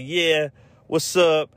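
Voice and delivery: drawn-out New York artist accent, put on; mock New York accent. Imagined artist flaunting diamonds online, mock New York accent. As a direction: lightly ham up a slow New York accent. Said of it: "you know what accent I'm doing".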